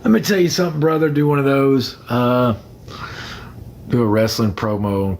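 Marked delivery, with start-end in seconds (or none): 0.0-1.1 quick, lightly hammed wrestler growl, pitched up; Hulk Hogan. Cutting a playful wrestling promo for his live viewers, mock Hogan voice. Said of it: "I could be like Hulk Hogan".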